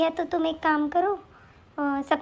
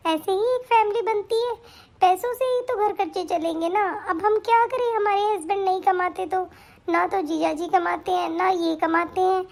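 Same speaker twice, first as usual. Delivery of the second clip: crying complaint; 3 semitones higher than usual. Acted. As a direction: sob out the hurt to your sister. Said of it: "तू रो, रो क्यों रही है?".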